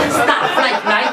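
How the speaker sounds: slow, drawn-out product name; hammed-up salesman pitch; salesman hype. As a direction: stretch the brand name like a grand announcement. Salesman reeling off shoe names.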